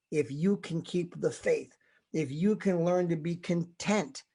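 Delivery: slow sincere sermon appeal; slow earnest exhortation. Real, not acted. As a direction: lay it down gently. Preacher slows to exhort.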